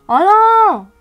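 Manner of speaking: long, high, loud wail; drawn-out, high cry of alarm; dismayed cry. Real, not acted. Sees another makeup mishap.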